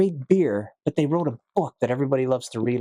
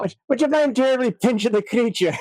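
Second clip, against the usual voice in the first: mock patron request; 8 semitones higher, 3 dB louder than usual. Imitating bar patron asking.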